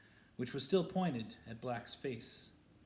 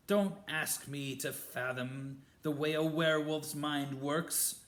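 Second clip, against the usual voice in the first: hissing contempt; 2 semitones higher, 5 dB louder than usual. Acted. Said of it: "hissed Snape".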